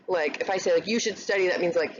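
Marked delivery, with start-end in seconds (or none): 0.9-1.5 flat, falling know-it-all order; bossy advice. Shown as a demonstration. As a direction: tell them what to do as if you know best. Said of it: "I know everything and you don't know anything".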